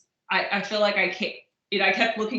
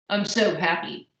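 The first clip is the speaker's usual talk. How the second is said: deadpan happy. Shown as a demonstration. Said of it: "no one does that".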